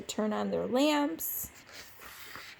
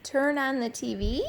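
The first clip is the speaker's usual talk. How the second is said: higher and louder, piling up requests; lightly voiced aunts pestering higher and higher; aunts' demanding chorus; 9 semitones higher, 5 dB louder than usual. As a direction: build the nagging list of requests. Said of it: "all Max heard was".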